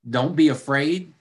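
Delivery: mocking repeat with a sarcastic rise; sarcastic echo. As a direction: throw his words back at him. Disciples mocking Jesus' words.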